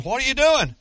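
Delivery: high, loud panicked call; alarmed mother's cry. Acted. Mother running to her son, shouting in alarm. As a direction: cry out like a mother seeing her boy in danger.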